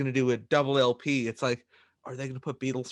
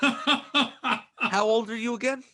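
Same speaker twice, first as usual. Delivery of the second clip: teasing laugh; 8 semitones higher, slower than usual. Real, not acted. Teasing co-host about his age.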